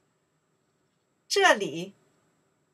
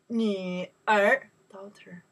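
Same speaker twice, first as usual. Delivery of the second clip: whispered 女儿 for the class to echo; slower than usual. Shown as a demonstration. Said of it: "unvoiced whisper".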